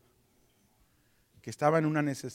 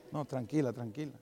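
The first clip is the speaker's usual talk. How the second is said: soft, calming reassurance; reassuring; 3 semitones lower, 8 dB quieter than usual. Retold or imitated. Husband calming his worried wife over money, reassuring. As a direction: hush her worry gently.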